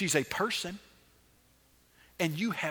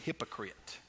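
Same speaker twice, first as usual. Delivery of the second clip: "Hypocrite." said low and soft, almost muttered; flat soft hypocrite; 9 semitones lower, 12 dB quieter, slower than usual. Shown as a demonstration. Jesus naming the ruler, the wrong soft way. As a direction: drop "Hypocrite." quietly with no force. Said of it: "I doubt he said".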